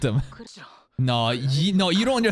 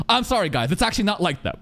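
mock apology; 3 semitones higher than usual. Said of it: "Twitter saying".

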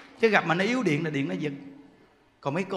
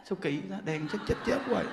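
soft puzzled mutter; 8 dB quieter than usual. Retold or imitated. Scared person puzzled by lights.

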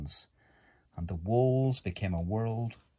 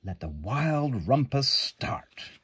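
called out; 4 semitones higher than usual. Acted. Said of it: "cried Max".

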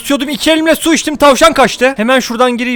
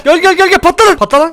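excited yell; 6 semitones higher than usual. Real, not acted. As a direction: scream at them to blow up. Yelling at enemies to explode. (heyecanla bağırış)

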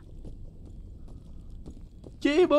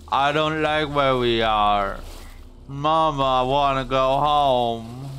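mock scared child. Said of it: "I don't know why I'm talking like this".

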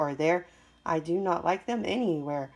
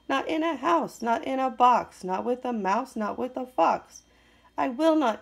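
exasperated list; 5 semitones higher than usual. Acted. Grouch reeling off refusals to Sam, hammed-up exasperation. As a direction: fling each no at him.

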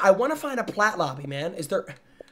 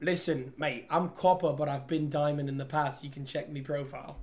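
put-on British accent; 4 semitones lower, 6 dB quieter than usual. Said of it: "do I do my British accent?".

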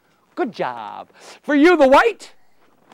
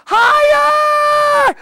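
high excited call of higher; 3 dB louder than usual. Real, not acted. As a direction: urge them up, voice leaping high. Urging child to reach higher.

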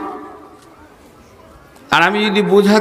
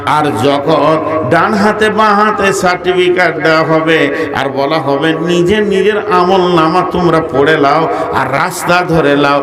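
melodic sermon. Real, not acted. Preacher warns Ayesha of Judgement Day, in melodic sing-song preaching. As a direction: preach in a sustained chant, swelling on the big phrases.

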